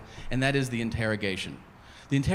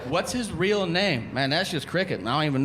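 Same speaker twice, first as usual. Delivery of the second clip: street witness impression; 7 semitones higher than usual. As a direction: brag that you've known him for years. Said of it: "That's a perfect fucking impression".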